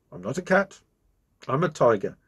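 mild mock growl; a lightly growled complaint. Tiger grumbling at the bee on his back, mild growl. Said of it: "growled the tiger".

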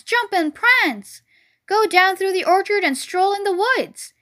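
high, loud goose voice, gushing; excited goose. Acted. Goose telling free Wilbur where to roam, excited gush. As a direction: skip and prance slowed, savoured.

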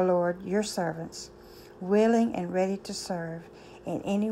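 earnest, steady prayer voice. Acted. A speaker opens the morning talk with prayer. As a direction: pray it out to the Lord, unhurried. Opening prayer before sermon.

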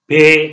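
पे with a puff of f; breathy German P. Shown as a demonstration. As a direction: say पे with a little f air in it. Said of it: "थोड़ा सा फे करके पे". (पे को थोड़ा फे करके बोलें)

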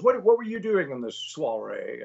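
lightly voiced Scottish star; a hint of imitated Scot, inquisitive; Sean Connery. Sean Connery questioning the announcer at the party, imitated voice. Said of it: "he goes".

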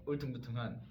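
level 울퉁불퉁한 in a foreigner's Korean; English accent Korean. Retold or imitated. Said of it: "외국인이 발음을".

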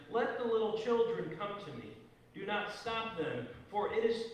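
measured, formal gospel reading; scripture reading. Acted. Pastor reads the gospel to the congregation, formal and measured. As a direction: read scripture aloud in even, deliberate phrases.

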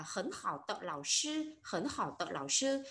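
measured model reading with "tợ" linking "hảo" and "lão". Shown as a demonstration. Teacher modelling an example for learners, "tợ" read as a link. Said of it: "phải đọc là tợ".

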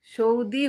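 "সৌদি" as shou-dee, ou in the first syllable; ou pronunciation. Shown as a demonstration. Host explaining the missing letter, "সৌদি" as shou-dee. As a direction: glide from o to u in "সৌদি". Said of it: "S ও ইউ যদি হতো".

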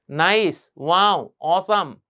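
"অসাম" with a full "sam" ending; wrong pronunciation. Shown as a demonstration. Teacher mimics bad praise, "অসাম" with an open "aa". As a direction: separate heavy words, "অসাম" as "o-saam". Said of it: "বলা যাবে না".

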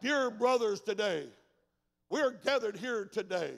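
put-on slow, formal old-style preacher; lightly hammed-up solemn pulpit voice; a touch of stiff traditional sermon; mock King James preaching. Shown as a demonstration. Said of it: "King James kind of preaching".

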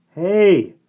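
put-on boy's yell jumping high; cracking adolescent voice. A narrator's reading. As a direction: let the voice crack upward loudly. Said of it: "Sandy's changing voice cracked".

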